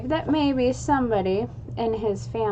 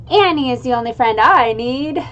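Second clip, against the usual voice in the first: louder, puffed-up superhero announcement; booming declaration; 3 semitones higher, 8 dB louder than usual. Acted. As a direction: boom it out like a kid playing superhero. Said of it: "before booming".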